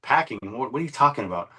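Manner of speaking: a high startled "Packing?", then baffled; retold surprise. Retelling his own confused reply to a gun threat, high and startled. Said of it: "And I'm like".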